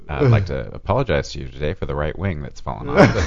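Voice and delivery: controlled pilot voice. Retold or imitated. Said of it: "it's that controlled".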